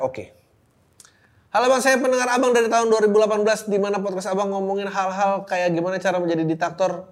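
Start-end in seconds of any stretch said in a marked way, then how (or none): 1.5-7.1 higher, louder, fast listener-letter read; upbeat letter read. Real, not acted. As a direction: rattle off the greeting brightly. Reading listener letter aloud.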